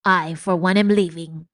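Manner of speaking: huffy exit. Acted. Botticelli storms off.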